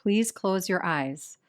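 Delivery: measured yoga nidra instructions with long pauses; guided meditation. Real, not acted. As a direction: settle listeners into position, unhurried and even. Leads a guided relaxation practice.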